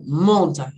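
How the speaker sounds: "mountain" with MOUN stressed; stress first syllable. Shown as a demonstration. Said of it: "a sílaba tônica é no mon". (tônica em MOUN de "mountain")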